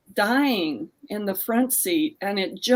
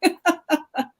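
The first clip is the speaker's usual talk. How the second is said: laughing out the words, pitched higher and louder; blurting it through a real laugh; 8 semitones higher, 6 dB louder, much faster than usual. Real, not acted. Author laughing at the host's sandwich joke, laughing.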